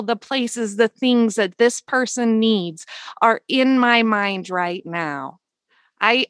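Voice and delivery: steady, earnest words spoken to the universe; solemn affirmation. Shown as a demonstration.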